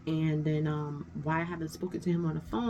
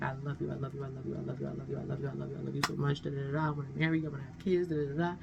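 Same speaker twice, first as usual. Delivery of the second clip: mock lovesick suitor; 3 semitones lower, 5 dB quieter, much faster than usual. Mocking his repeated love messages again.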